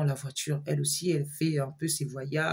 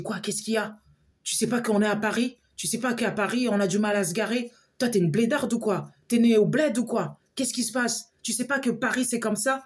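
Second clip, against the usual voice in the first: retold rude scoff, higher than her own voice; mocking annoyed retort; 5 semitones higher than usual. Friend brushing off the woman about Paris parking, scornful. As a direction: sneer at her for not knowing Paris.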